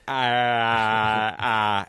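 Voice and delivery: long, drawn-out vacant "ah"; blank-faced bewilderment. Retold or imitated. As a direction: stall on one empty, unrecognizing vowel. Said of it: "he looks at me and he goes".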